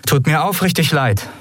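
a lying, lightly sarcastic sorry; insincere apology. Acted. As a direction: fake an apology you don't mean. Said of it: "log sie".

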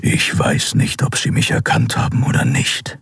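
growling Skria. A narrator's reading. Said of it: "knurrte Keru". (langsames, fast tonloses Knurren)

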